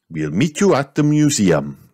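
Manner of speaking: Mister Rabbit calling. A narrator's reading. Mister Rabbit calls to the explorers, lightly voiced. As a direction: call out while driving off. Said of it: "Mister Rabbit called out".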